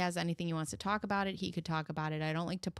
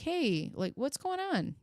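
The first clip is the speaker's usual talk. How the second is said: pretend caring mother; 3 semitones higher than usual. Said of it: "you don't say, like".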